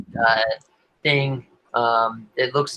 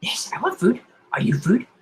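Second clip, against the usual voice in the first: crazed mind voice; 7 semitones higher than usual. Acted.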